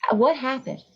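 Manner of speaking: restrained re-enactment of a hysterical cry; retold hysterical scream. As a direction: plead urgently, imitating a frantic scream. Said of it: "I'm screaming".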